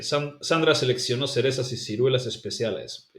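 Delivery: Sandra seleccionó with every C as S; Latin American S. Shown as a demonstration. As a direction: hiss each C like a Latin American. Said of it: "it's all basically all S's".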